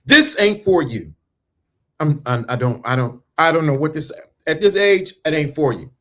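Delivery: ordinary talk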